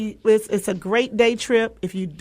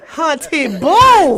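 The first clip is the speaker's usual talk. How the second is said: sassy drawl; 3 semitones higher, 7 dB louder, much slower than usual. Real, not acted. Playful sassy endearment.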